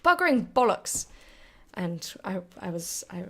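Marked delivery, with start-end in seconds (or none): 0.1-1.1 put-on English accent. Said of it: "where she goes".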